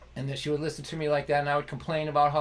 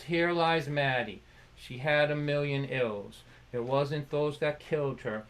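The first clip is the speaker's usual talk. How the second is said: reading an epitaph. Retold or imitated. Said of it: "I read it. It says".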